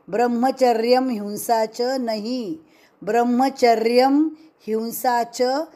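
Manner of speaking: ब्रह्मचर्यम हिंसा च split after म, the wrong way; गलत विभाजन: ब्रह्मचर्यम / हिंसा; wrong word split. Shown as a demonstration. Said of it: "यह गलत उच्चारण है".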